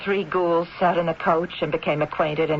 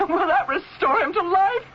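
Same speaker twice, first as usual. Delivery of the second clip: mocking laugh; 11 semitones higher than usual. Donna mocks with a laugh.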